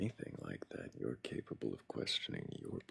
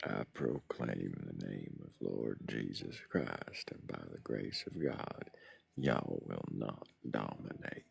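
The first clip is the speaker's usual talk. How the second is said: put-on southern accent; 2 semitones lower than usual. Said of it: "accent sticking".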